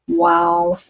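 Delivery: high, astonished wow; surprised wow. Real, not acted. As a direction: gasp it out in disbelief. Shocked by cigarette price.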